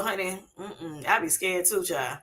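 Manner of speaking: mild put-on Respucia voice, easing off at the end. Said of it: "In my Respucia voice".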